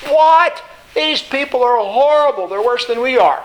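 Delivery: jolted disbelief easing into indignation; aghast outburst. Acted. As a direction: sputter it like you can't believe what you just heard. Habakkuk aghast at God's plan.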